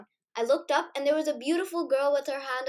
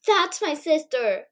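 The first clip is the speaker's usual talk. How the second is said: higher, louder and slow little squeak; 4 semitones higher, 5 dB louder, slower than usual. Acted. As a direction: squeak it out in surprise. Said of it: "she squeaked".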